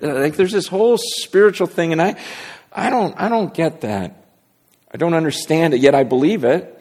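preaching. Acted.

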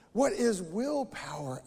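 lightly voiced Toad, slow and puzzled; a hint of innocent question between mouthfuls; Toad asking. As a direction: Toad asks Frog, mildly puzzled, slow. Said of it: "asks Toad".

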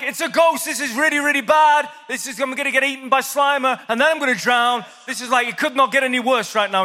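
high-pitched comic panic; hammed-up disciples wailing that all is lost; freaking out. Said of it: "And he's freaking out".

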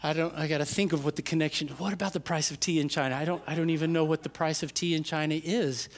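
quick, soft, bewildered rambling; confused kids. Retold or imitated. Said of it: "we're always like".

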